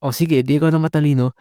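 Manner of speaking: a quick, light sarcastic jab; mild sarcastic comeback, fast; mocking comeback. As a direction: toss it off fast, half-mocking. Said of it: "pinagmumukha mong".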